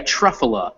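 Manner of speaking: "truffula" as TRUFF-uh-luh, first syllable stressed; model pronunciation. Shown as a demonstration. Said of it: "is how we do that".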